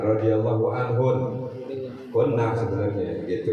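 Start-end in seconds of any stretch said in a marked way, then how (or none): 0.0-1.5 radhiyallahu anhun slowed with a light Arabic lilt; a hint of Arabic accent. Shown as a demonstration. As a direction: lean into a mild Arab accent on anhun. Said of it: "Kalau mau agak logat-logat Arab ya".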